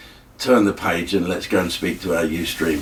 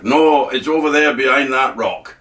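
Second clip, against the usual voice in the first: lightly voiced soldier, raised pitch; joking wounded soldier; 4 semitones higher than usual. Wounded soldier answers his comrade with a joke, lightly acted. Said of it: "he has a sense of humour".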